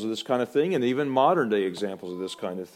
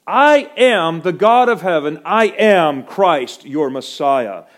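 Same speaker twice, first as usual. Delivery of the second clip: slow, loud, higher ringing proclamation; solemn declamation; 8 semitones higher, 14 dB louder, slower than usual. Acted. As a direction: hammer each I am as a great truth. Quoting Jesus, declaiming.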